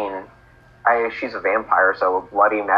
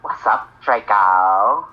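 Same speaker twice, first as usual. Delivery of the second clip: Ebony voice; much slower than usual. Acted. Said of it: "with your awesome ebony voice".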